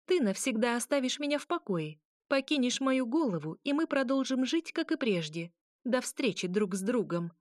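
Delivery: stern ultimatum. A narrator's reading. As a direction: lay down terms, word by word. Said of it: "отчеканила в ультимативной форме".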